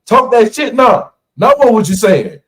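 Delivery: high, loud, mock-furious old man; angry yell. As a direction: bark it like a riled card player. Angry poker player yelling.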